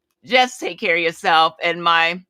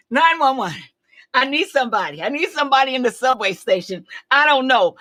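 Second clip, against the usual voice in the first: a touch of remembered panic, pitched up and urgent; replaying the dizzy call for help, a little breathless; retold panicked 911 call; 5 semitones higher than usual. Caller to 911 dispatcher, retold with mild urgent panic.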